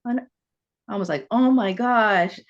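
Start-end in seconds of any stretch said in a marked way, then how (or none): 1.3-2.4 mildly panicked "oh my gosh", louder and drawn out; retold panic. Student reliving being put on the spot in class, mild panic. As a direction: act out a touch of remembered panic. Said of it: "I started to panic".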